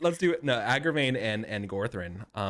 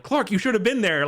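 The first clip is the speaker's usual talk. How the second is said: mock Clark Kent voice; 12 semitones higher, 4 dB louder than usual. Retelling Clark Kent scene.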